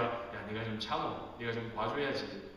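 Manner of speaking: soothing dad. Retold or imitated. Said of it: "그렇게 말하곤 하죠".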